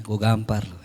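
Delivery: comic threat in a mild, tender tone; very softly spoken. Acted. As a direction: make the threat sound sweet and polite. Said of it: "Ngomongnya halus banget ya".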